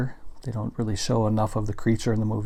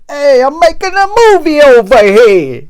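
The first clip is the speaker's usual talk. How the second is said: hammed-up, much higher, much louder shout; director yelling; 19 dB louder than usual. Collector imitating the director yelling on set, big mock shout. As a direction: yell it like a director shooing people off his set.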